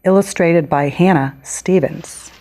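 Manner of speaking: measured storybook reading with clear pauses; picture-book read-aloud. Acted. Author reading her book to children, storybook read-aloud. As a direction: read to young children, stressing key words.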